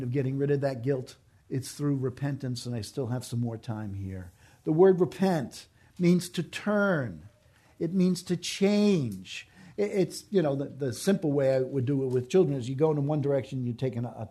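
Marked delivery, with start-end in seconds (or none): 4.6-9.5 slow, louder, each word weighed; slow emphatic definition. Real, not acted. Preacher teaching the congregation, slow and emphatic. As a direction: spell out the meaning slowly and firmly.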